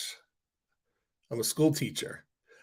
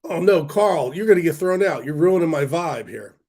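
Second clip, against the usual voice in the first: mock scolding; 4 semitones higher, 5 dB louder than usual. Real, not acted. Calling out a heckler in chat.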